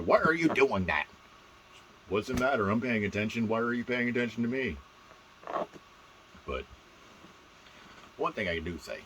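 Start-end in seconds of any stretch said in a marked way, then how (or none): 0.0-4.8 louder, mock-indignant challenge; mock scolding. Kid called out in class, mock scolding. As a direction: act out a scolding exchange. Acting out teacher from class memory.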